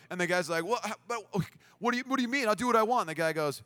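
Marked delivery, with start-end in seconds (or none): 0.6-3.1 put-on higher, spluttering kid; retold defiant protest. Bully answers the skate guy, spluttering and defiant. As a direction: stammer a mock indignant comeback.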